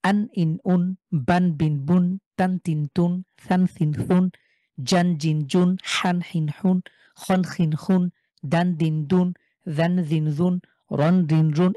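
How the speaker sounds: each tanwin like আন, ইন, উন said short with a clear final n; tanwin drills. Shown as a demonstration. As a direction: drill বান, বিন, বুন without lengthening the vowel. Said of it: "তানভিনের উচ্চারণও টান ছাড়া দ্রুত পড়তে হয়".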